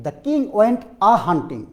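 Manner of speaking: very slow, with weight on king; slow answer read. Shown as a demonstration. Teacher reading the solved sentence slowly to the class. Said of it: "teacher reads answer slowly".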